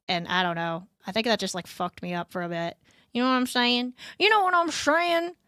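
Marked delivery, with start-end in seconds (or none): 4.2-5.3 put-on high, squeaky cute girl voice; high cute anime girl. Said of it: "pretend to be an anime girl".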